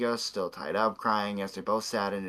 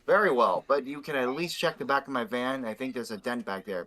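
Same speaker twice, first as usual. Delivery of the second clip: creepy voice; 2 semitones higher than usual. Acted. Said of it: "what a creepy voice".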